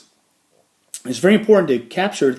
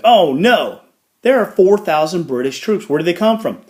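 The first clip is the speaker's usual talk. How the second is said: mock alarm; 5 semitones higher, 4 dB louder than usual. Montcalm's alarmed reaction voiced.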